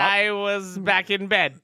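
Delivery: slow, drawn-out mock Irish; attempted Irish accent. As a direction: tease with a stretched Irish accent.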